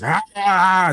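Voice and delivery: imitated raging yell. Player mimicking raging Pasha, mock yelling. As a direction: imitate a raging shout as "rah". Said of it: "Pasha is yelling 'cause they're raging".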